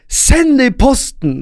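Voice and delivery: high, loud shouting. Retelling an argument with a woman on a tram, shouting back. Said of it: "Og jeg bare roper jeg bare".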